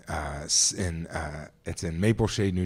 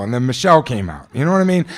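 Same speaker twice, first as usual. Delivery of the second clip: ordinary talk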